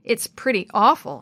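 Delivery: a touch of scornful snort; mild snort. Acted. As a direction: toss it off dismissively, lightly. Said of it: "he snorted".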